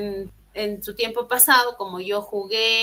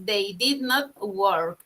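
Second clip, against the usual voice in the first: slow model sentence; 3 semitones lower, much slower than usual. Shown as a demonstration. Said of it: "simplemente dices".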